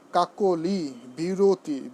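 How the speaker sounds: kakoli and biroti with a drawn-out o in কাকলি, বিরতি; model pronunciation. Shown as a demonstration. Teacher demonstrating words for students to practise, model pronunciation. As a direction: say কাকলি, বিরতি slowly with a clear o. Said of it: "আরও কিছু শব্দ উচ্চারণ করি".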